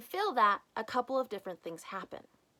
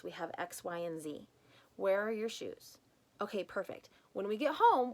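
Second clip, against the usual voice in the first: calm parent; 4 dB quieter than usual. Retold or imitated. Calm parent talking to kids.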